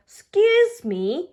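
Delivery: high, loud excuse me; a quick embarrassed apology. A narrator's reading. Peppa apologising after burping at lunch.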